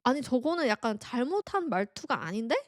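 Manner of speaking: ordinary talk, nothing marked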